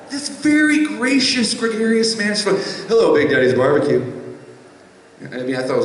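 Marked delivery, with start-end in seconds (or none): 2.9-4.0 deep, fast, smooth phone greeting; a famous soul singer's voice. Retold or imitated. Barbecue owner picks up the phone in a deep soul singer's voice. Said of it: "like, a soul singer answering the phone".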